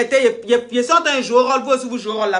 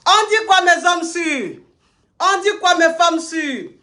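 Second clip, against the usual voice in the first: excited greeting; 5 semitones higher, slower than usual. Real, not acted. Greeting the live audience.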